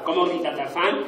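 full jungle yell; real Tarzan yell. Shown as a demonstration. Now showing the kids the real Tarzan call. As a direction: belt it out like Tarzan swinging in. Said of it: "Ahora, de verdad".

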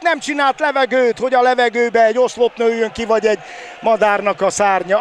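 ordinary delivery

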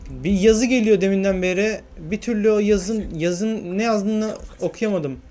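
slow, exasperated whine about the text; frustrated complaint. Real, not acted. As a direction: grumble it slowly, fed up.

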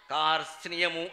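"కార్స్నియము" with r, t, s, n, y run together; full consonant cluster. Shown as a demonstration. Teacher demonstrates a hard Sanskrit word, every consonant sounded in "కార్స్నియము". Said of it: "రా కింద తావొత్తు".

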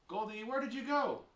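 loud, high searching call. Acted. Child searching for vanished Goldie, calling out. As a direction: call out high for someone lost.

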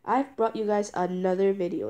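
stuffy, congested sick voice; blocked nose. Real, not acted. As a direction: talk through a blocked nose. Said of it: "If I sound a bit, like, congested".

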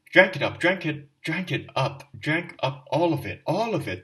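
loud, high, despairing repeated shout; wife shouting in despair at her husband. Acted. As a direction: hammer the words out in despair. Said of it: "kept shouting in despair".

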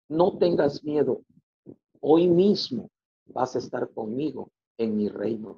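slow and solemn, lightly voiced; voice of Jesus. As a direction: speak slowly like a calm divine voice. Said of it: "y me dijo estas palabras". (voz solemne y pausada de Jesús)

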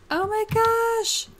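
gasp, then high, loud, drawn-out cry; excited. Real, not acted. Gamer finding the cow plant, thrilled and excited. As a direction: squeal it slowly in amazed delight. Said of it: "I am so excited".

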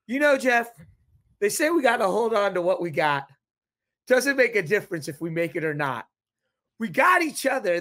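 lightly performed lyric-quoting; quoting song lyrics. Retold or imitated. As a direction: recite the lyrics as a big declaration to the host. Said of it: "I talk like this anyways".

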